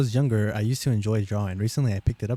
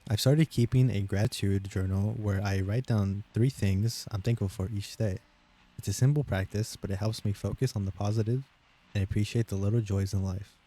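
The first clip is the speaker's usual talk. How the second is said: slower read; 3 dB quieter than usual. Shown as a demonstration. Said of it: "I'll read it slower".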